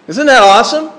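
bright, rising "Isn't that awesome?" with a lift on "that"; excited question. Shown as a demonstration. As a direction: sell it with real enthusiasm. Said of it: "didn't sound too excited when I just said".

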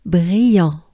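"brillant" voiced and loud, nasal an. Shown as a demonstration. Teacher giving the full voiced take after the whisper. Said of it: "Take a good breath".

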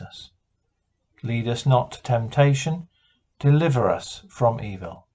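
calm, measured recitation of the Lord's Prayer. Acted. Minister leading the congregation in evening prayer, calm and measured.

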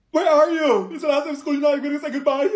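loud, high excited calling out. Acted. Student calling a friend on the last school day. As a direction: call across the room for a friend.

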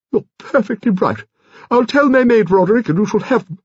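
very high grande-dame voice; high, lordly old aristocrat; imperious old lady. A narrator's reading. Voices Lady Lacklander in story.

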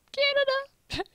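high, loud call across the room. Acted. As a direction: shout the name out. Calling out for missing Canada.

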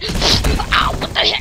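loud, high startled yelp; ow, with indignant shock; startled pain. Acted. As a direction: cry out in sudden pain. Sudden hit in acted skit.

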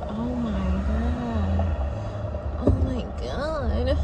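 slow, drawn-out overwhelmed groan; a slow, weary oh my god. Retold or imitated. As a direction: sound swamped by the clutter. Feeling attacked by clutter.

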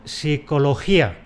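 psicología said with a plain S start; psicología without P. Shown as a demonstration. Teacher showing the Spanish form, silent P. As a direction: drop the P in psicología. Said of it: "De ahí que pronunciemos".

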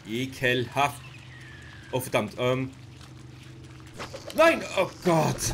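loud panicked cry, slow and high. Real, not acted. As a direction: scream it out in horror. Chased, caught by creatures.

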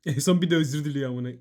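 loud, mocking outburst; loud scoff. Real, not acted. Streamer scoffs loudly at a viewer who apologised last. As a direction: blurt it out in loud disbelief.

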